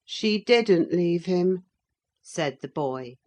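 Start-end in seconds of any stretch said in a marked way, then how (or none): 0.1-1.6 lightly voiced sulky boy, slow; contrary boy. Linton contradicts his cousin about her aunt, lightly voiced sulky boy.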